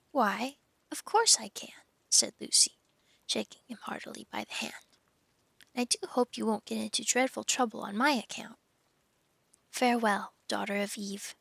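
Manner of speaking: expressive storybook reading; story narration. A narrator's reading. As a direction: read it aloud like a children's novel. Reads a story aloud.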